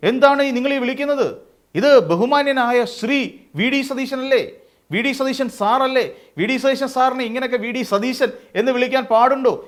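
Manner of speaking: sarcastic imitation of an outraged party loyalist; mock outrage. Angry supporters' outraged quote.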